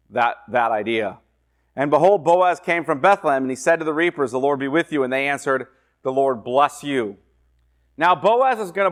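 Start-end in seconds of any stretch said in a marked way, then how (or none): 1.8-7.2 scripture reading. Acted. Preacher reading Ruth aloud to the class. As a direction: read the verse out to the class.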